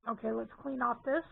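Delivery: talking through hiccups; hiccupping between words. Real, not acted. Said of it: "I have the hiccups".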